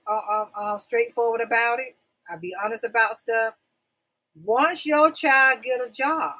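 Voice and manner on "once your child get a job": topic announcement. Real, not acted. Restating the announced topic title.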